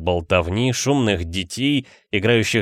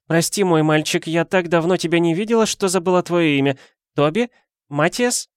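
confused aunt; 9 semitones higher than usual. A narrator's reading.

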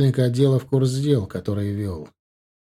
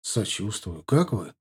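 concerned; 4 semitones lower, 6 dB quieter, slower than usual. A narrator's reading. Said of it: "обеспокоенно спросил я".

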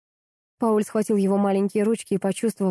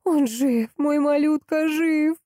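breaking, excited voice; 9 semitones higher, slower than usual. A narrator's reading. Mother over the crib, overjoyed her son lives. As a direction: voice breaking with relief and joy. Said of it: "срывающийся взволнованный голос".

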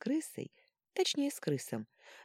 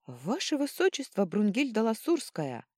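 high, whispery squeaking rodent; squeaky rat voice; 6 semitones higher, 4 dB louder than usual. A narrator's reading. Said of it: "пропищала крыса".

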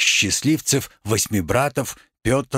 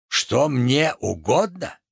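slow, measured echo of the question; incredulous echo; slower than usual. Acted. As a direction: repeat it back with restrained theatrical disbelief. Tragedian echoes question, first take.

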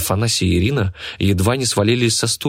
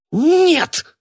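very high, loud shriek; shrieking cry; 4 dB louder than usual. A narrator's reading. Мурена shrieks as the lot is sold to the girl. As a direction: scream it in shrill outrage. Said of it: "визгливо крикнула Мурена".

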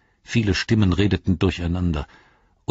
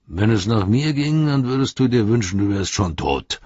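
a higher, louder mock orc threat; spiteful orc; 5 semitones higher, 4 dB louder than usual. A narrator's reading. Second orc threatening Pippin, hammed-up spite. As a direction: spit the threat like a mean goblin.

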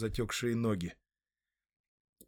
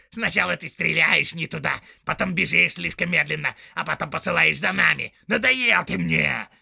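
loud, high orc threat; threatening orc; 6 semitones higher, 9 dB louder than usual. Acted. Soldier threatening to strangle the tracker, loud. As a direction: choke him with the words.

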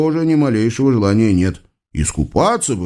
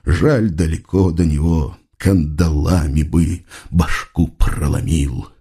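grumbling officer; 7 semitones lower than usual. Acted. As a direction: grumble it under the breath. (низкое ворчание офицера)

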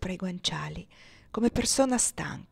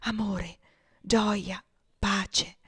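sussurrato, appena un soffio; le ultime parole di una bambina morente; dying murmur; much slower than usual. A narrator's reading. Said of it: "ella mormorò". (la bambina morente sussurra al padre le ultime parole)

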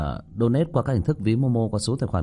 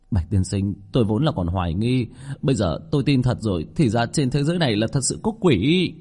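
mildly unsettled, ending higher; shaken realisation; 3 semitones higher, 3 dB louder than usual. Acted. Captain admitting ghosts are real, shaken. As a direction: let the astonishment climb towards the end.

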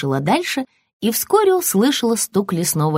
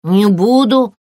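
a sharp, louder yelp of refusal; puppy squeal; 2 semitones higher, 6 dB louder, slower than usual. Acted. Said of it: "взвизгнул щенок".

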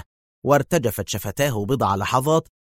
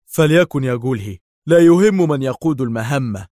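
forceful, raised-pitch concession; controlled anger; 3 semitones higher, 5 dB louder than usual. A narrator's reading. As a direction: give in while holding back temper. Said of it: "وسيطر على أعصابه الثائرة".

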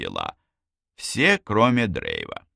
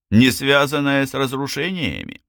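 higher, incredulous repeat; scornful echo; 6 semitones higher, 3 dB louder than usual. A narrator's reading. Drave snorting at Lazlo's suggestion, incredulous scorn. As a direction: throw the words back in disbelief. Snorting, throws the words back.

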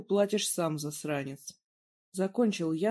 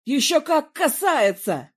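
much higher, loud, slow shout; shouting back at Daniela; yelled; 8 semitones higher, 9 dB louder than usual. A narrator's reading. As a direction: roar it right back. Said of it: "заорал уже я".

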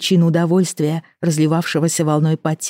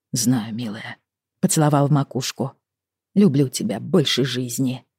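tender husband; 3 semitones lower than usual. Acted. Husband tender, lower, softer.

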